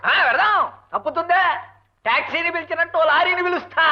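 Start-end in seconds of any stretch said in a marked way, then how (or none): 0.1-1.4 raised-voice answer. Acted. Husband answers hard-of-hearing wife about the circus, voice raised. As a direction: agree with raised voice.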